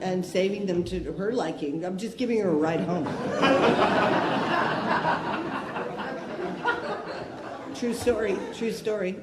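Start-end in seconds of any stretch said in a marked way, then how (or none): 3.1-7.7 laughing. Real, not acted. Laughs at own car story.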